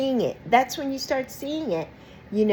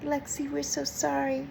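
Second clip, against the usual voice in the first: mock sorry plea; 5 semitones higher, 8 dB quieter than usual. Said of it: "don't come crawling back saying".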